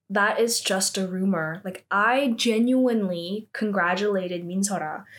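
measured, composed retelling; cool lying. Retold or imitated. Lying when questioned by police, mildly acted coolness. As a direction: imitate a smooth, straight-faced denial. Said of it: "coolly just, like, lies".

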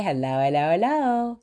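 catchphrase hello. Retold or imitated. Fan messaging her catchphrase in a sing-song voice. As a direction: echo the greeting back. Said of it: "always say".

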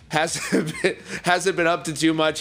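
chuckling through the words; laughing. Real, not acted. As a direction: laugh while you talk. Laughing while describing cameo.

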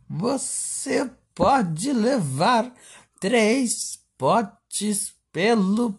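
high, slow, sing-song TV sales pitch; over eager infomercial. Pretend. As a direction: sell it like a daytime TV host. Imitating a TV shopping host.

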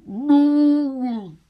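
high, loud laughing cry; laughing squeal. Retold or imitated. Overcome with laughter.

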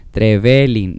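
"Trevelin" said with the stress on the second e, tre-VE-lin; "Trevelin", lean on the second e, tre-VE-lin. Shown as a demonstration. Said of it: "todos practicando en este momento". ("Trevelin" con el acento en la segunda e)

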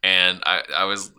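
ordinary talk, nothing marked

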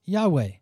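"Yahweh" said YAH-way, two syllables, falling; "Yahweh" spoken clearly, YAH-way; saying the name. Shown as a demonstration. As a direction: pronounce "Yahweh" as YAH-way, stress on the first part. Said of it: "we would say this as".

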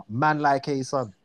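swaggering slang line; confident London slang. Shown as a demonstration. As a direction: throw it out with swagger. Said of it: "You just say it like that with swagger".

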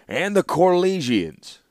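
mild thoughtful musing, unhurried; thoughtfully. A narrator's reading. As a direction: linger on it as if weighing a plan. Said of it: "added the warlord thoughtfully".

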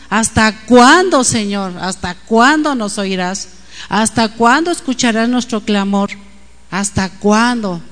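slow, drawn-out cry to God; imitated pleading. The Lord's servant cries out to God, imitated pleading. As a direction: plead with weight on each "cuándo". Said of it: "Está clamando a Dios".

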